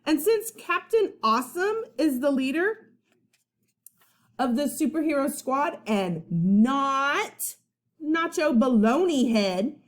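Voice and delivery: put-on high, bossy kid demand. Boy ordering his friend to push him, high and bossy. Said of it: "Eugene continued".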